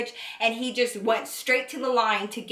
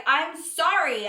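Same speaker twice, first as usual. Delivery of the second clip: slow, drawn-out retold sorry; pleading apology; 4 semitones higher, slower than usual. Girlfriend to her hurt boyfriend, pleading apology. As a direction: stretch out the apology, acting it lightly.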